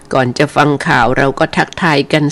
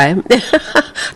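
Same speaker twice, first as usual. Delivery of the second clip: short laugh; 7 semitones higher, 3 dB quieter than usual. Real, not acted. Host laughs about forecast accuracy.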